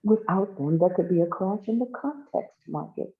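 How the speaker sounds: high, declaiming speech-maker; proclaiming governor. Acted.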